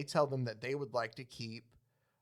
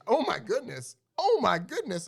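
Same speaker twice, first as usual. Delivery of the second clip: rising higher, louder panicked exclaim; mock alarm; 8 semitones higher, 5 dB louder than usual. Podcast host voicing a comic-book seal, mock panic. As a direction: seal gasping in shock, getting more frantic. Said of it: "The seal looks outside and goes".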